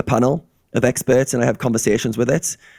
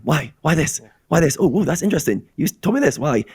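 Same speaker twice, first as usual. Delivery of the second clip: rising, eager run of questions pitched higher; curious childlike questioning; 4 semitones higher than usual. Retold or imitated. A curious player firing questions at the AI, eagerly pitched up. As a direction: pester like a curious child asking why. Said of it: "I just ask why all the time".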